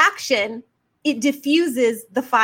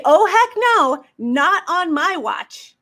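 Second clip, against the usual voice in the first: defiant refusal; 2 semitones higher, slower than usual. Pretend. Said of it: "and say".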